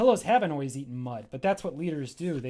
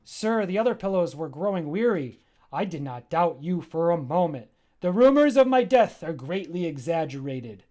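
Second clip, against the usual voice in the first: excited pillow; 6 dB louder than usual. Acted. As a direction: greet the master with delight. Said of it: "the pillow says".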